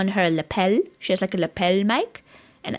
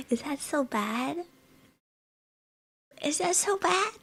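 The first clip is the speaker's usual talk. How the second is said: small high-pitched playful plea; mock pleading; 7 semitones higher, 6 dB quieter than usual. Playful pleading about liking fruit.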